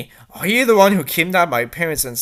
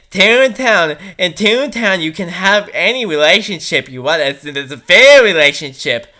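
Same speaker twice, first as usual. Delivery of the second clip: mocking the author; 5 dB louder than usual. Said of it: "the author justifies it by saying".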